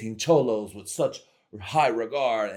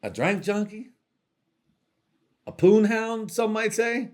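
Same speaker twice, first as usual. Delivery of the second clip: squeaky mock self-label; 12 semitones higher, 5 dB louder than usual. Comic self-description, squeaky.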